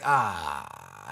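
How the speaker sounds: long, low mock groan of dismay; frustrated groan. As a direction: groan "ah" low, as if realising the wasted work. Acting out regret at wasted work.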